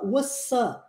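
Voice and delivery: "What's up?" with T and P dropped, said as os-a; casual what's up. Shown as a demonstration. Teacher demos how natives really say it. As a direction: swallow the T and the P in "What's up?". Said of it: "A gente corta o T".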